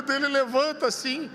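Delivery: normal talking voice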